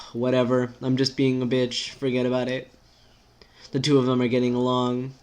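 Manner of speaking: lightly voiced, exasperated rant; exasperated character. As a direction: vent the worries in an unbroken rush.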